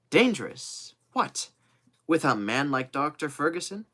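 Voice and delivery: high-pitched, affronted surprise; indignant disbelief. Acted. Loyal servant to Kennedy about his master's danger, indignant disbelief. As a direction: balk at the very idea, high and incredulous. Joe shocked at talk of danger.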